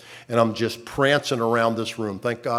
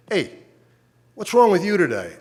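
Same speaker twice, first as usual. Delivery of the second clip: nurse scolding; 7 semitones higher, 4 dB louder than usual. Retold or imitated. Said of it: "came in and said".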